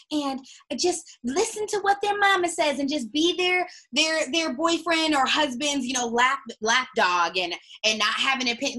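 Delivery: high, loud mocking singsong; mock the meek obedient wife. Ranting about meek women, high mocking voice.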